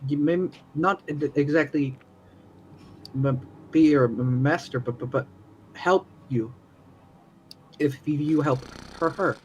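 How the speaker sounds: nervous, halting stutter; stuttering character. Acted. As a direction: trip over the first sounds. Character keeps stammering.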